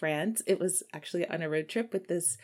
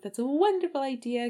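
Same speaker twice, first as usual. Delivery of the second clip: mock enthusiasm; 6 semitones higher than usual. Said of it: "And I was like".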